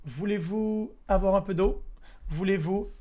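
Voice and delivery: "Voulez-vous avoir un peu d'eau?" in spoken French, rising at d'eau; French phrase. Shown as a demonstration. Streamer showing chat a polite French offer of water. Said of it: "instead you say".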